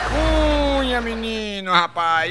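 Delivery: high drawn-out opening call; signature call. Acted. Comedian opening a joke with his catchphrase, high and drawn out. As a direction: belt out the show's catchphrase.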